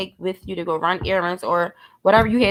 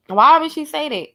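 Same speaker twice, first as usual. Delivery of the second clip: incredulous repeat; 5 semitones higher than usual. Real, not acted. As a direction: ask it again in disbelief. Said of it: "repeats the question, incredulous".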